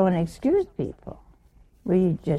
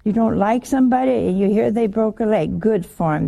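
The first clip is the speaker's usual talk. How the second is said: normal talking voice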